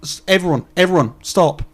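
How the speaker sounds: mock telling off. Speaker silencing a heckler, firm mock scolding. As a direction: halt the chamber and threaten the heckler. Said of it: "I'd have to say".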